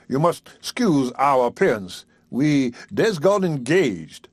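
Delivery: lightly voiced preacher, slow and pleased; a hint of unbothered pride; smug preacher. Haywood to Isaac, smug.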